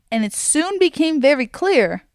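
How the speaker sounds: ordinary talk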